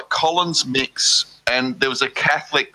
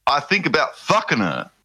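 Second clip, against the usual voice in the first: reading aloud haltingly; 2 semitones higher, slower than usual. Pretend. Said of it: struggling to read a favourite song by a rapper.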